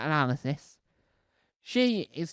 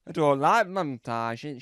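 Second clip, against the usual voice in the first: a slow, lightly put-on presenter voice; a hint of a grand TV host; different voice; 4 dB louder, slower than usual. Lightly voiced presenter declaring her dislike. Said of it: "I'm just trying to do a different voice".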